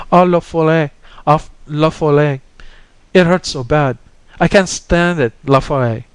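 high, loud tearful wailing; weeping in pain.

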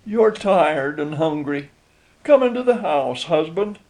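wife tenderly inviting her husband in; gentle. A narrator's reading. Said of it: "she said gently".

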